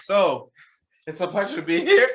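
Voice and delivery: high voice, cracking and breaking. Newly introduced guest greets the host of a live show, voice cracking. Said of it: "my voice cracked".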